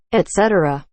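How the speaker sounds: ET CETERA with a clear T. Shown as a demonstration. Listing versions of the word, clear ET CETERA. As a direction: say ET CETERA as et-SET-er-a. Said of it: "It's et cetera".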